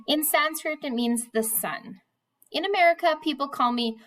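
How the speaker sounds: reading a novel aloud to the class; steady read-aloud storytelling; story reading. A narrator's reading. Teacher reads novel aloud.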